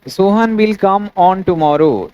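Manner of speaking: example read out word by word; slow, spaced classroom dictation. Shown as a demonstration. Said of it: "तो देखिए".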